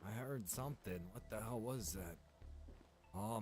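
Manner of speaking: usual speaking voice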